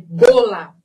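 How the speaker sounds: "Bola" with closed o and firm b; closed sound. Shown as a demonstration. Teacher showing the Spanish sound, closed. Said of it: "Aí eu fecho".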